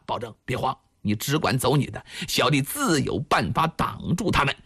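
压低声调让人放心; 沉住气安慰慌张的兄长; 低声安抚. A narrator's reading. 朱仝低声安抚受惊的晁盖. (低声宽慰)

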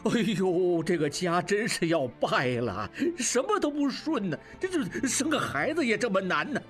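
low aged master yelling in frustration; exasperated shout. Acted. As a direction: snap at the servants to drag her away. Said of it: "景清大叫". (低沉的老东家气急败坏地大叫)

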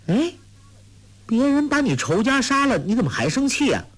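put-on high, quick girlish teasing; teasing Huang Rong. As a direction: needle the angry farmer playfully. (黄蓉俏皮地逗农夫，声音高而快)

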